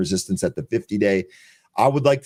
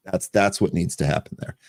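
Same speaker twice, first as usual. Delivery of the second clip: normal talking voice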